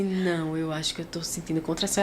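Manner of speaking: a quiet retold worry; hushed and worried. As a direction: say it under your breath, worried. Retelling feeling the contraction.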